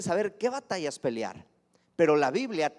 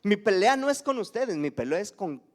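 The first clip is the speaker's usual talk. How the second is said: said out loud and firm; louder declaration; 2 semitones higher, 4 dB louder than usual. Real, not acted. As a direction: proclaim it strongly to the congregation. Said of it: "eso ya se oye bien fuerte".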